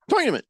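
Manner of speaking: high-pitched "tournament" with OY, TOY-nament; mock pronunciation. Shown as a demonstration. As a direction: cheekily repeat "tournament" as "toynament". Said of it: "I just felt like it".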